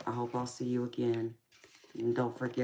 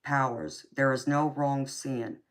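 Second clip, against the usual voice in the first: card reading; 3 dB louder than usual. Acted. Reading the card's message aloud.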